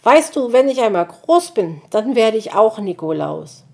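hohe, laute Kinderstimme voller Eifer; aufgeregt. Acted. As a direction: sprudle vor Begeisterung. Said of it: "erzählte er aufgeregt weiter". (Borstel erzählt Mutti aufgeregt)

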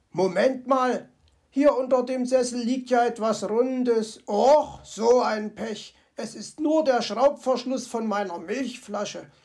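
lightly voiced fox, let down; mild disappointment from the little fox; fox character voice. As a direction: fox sighing over bad luck. Fox finds bottle cap.

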